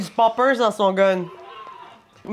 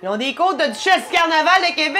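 gleeful exclaiming; excited shout; 3 semitones higher than usual. Real, not acted. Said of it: "toi qui crie ça".

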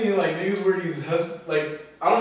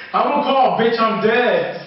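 loud slow laugh through words; 8 semitones higher, 9 dB louder, much slower than usual. Real, not acted. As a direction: crack up while saying it. Cracking up at ad joke.

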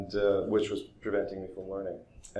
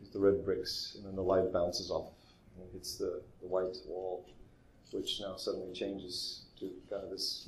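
softer, calm, patient explanation; gentle way of speaking; 3 dB quieter than usual. Retold or imitated. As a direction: guide them gently through the light and colour. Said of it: "continuing with this very gentle, a way of speaking".

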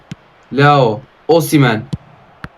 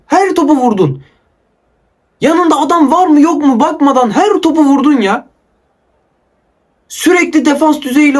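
higher-pitched, fed-up ranting; real angry rant; 4 semitones higher than usual. Real, not acted. Gamer scolding a player who hit every ball, angry. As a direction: rant at the game in genuine exasperation. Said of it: "bu kadar sinirlendiğimi hatırlamıyorum".

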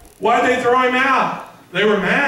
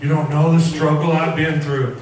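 self-pitying excuse-maker; 5 semitones lower than usual. Retold or imitated. Mimics someone making excuses.

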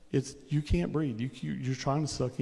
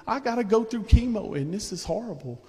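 higher, louder hammed-up whine; mock complainer; 8 semitones higher, 3 dB louder than usual. Preacher mimics a believer complaining about chemo, hammed-up whine. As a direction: lightly act out someone grumbling about chemo. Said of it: "it's easy to say".

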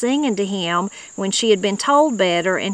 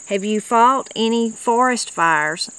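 interviewer's question; 3 semitones higher, slower than usual. Retold or imitated. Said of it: "And that was Lewis Reagan".

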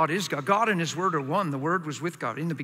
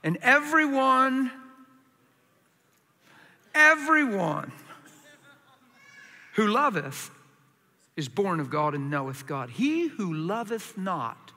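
slow scripture reading; 3 semitones higher than usual. Shown as a demonstration.

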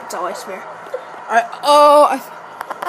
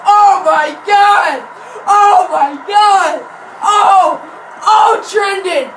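excited shouting; 3 semitones higher than usual. Real, not acted. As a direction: crow over the big play. Celebrating best punt return.

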